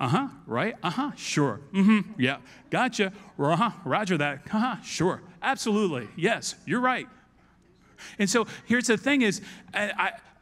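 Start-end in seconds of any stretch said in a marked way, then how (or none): none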